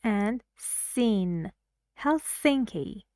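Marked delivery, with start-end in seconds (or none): 2.0-3.0 Helsinki with stress on sin, falling; Helsinki modelled. Shown as a demonstration. Teacher shows students Helsinki, stress on sin. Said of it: "This is E and sin".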